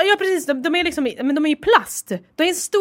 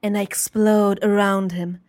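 mock-sultry narrator; 3 semitones lower, slower than usual. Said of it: "hon pratar typ så".

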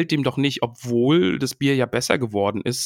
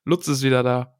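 happy. Real, not acted. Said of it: "mein Herz erfüllt sich mit Wärme".

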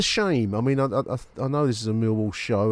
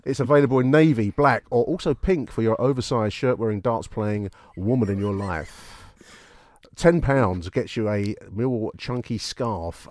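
hammed-up movie trailer announcer; cinema advert voice; 3 dB louder than usual. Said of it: "cinema advert voice on for you".

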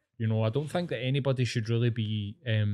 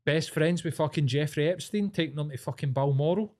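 heated, higher-pitched tirade; real anger; 5 semitones higher than usual. Real, not acted. Podcast host venting about Andrew, real angry tirade. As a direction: let the anger spill out, voice jumping up. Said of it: "I'm really fucking angry at that".

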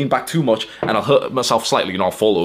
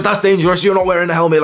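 imitated scream; 8 semitones higher, 5 dB louder than usual. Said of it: "starts screaming at him and says".

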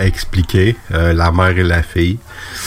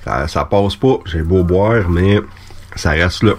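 frog in throat. Real, not acted. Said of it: "j'ai quelque chose dans la gorge".

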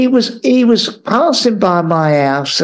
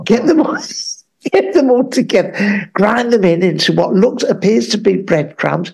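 mock Mary Berry. Mary Berry giving recipe.

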